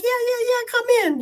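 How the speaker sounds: high and breathless with giggles; laughing welcome. Retold or imitated. To the doctors at the door, laughing welcome. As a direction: call them in mid-giggle. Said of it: "'cause I'm crying, laughing".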